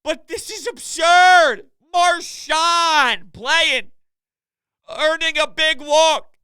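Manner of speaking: high, loud, drawn-out disbelief; astonished outburst. Real, not acted. Host stunned by unlikely players winning games, incredulous shouting. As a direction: stretch out each feat as if absurd. Astonished rant listing absurd feats.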